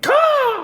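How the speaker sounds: high squawking crow caw. Retold or imitated. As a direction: shriek like a crow. Imitating the crow.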